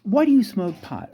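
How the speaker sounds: mock interrogation, pitch climbing as it goes; pestering mock psych exam; examining psychologist. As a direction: fire questions like a hammed-up examiner. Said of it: "psychological examinations".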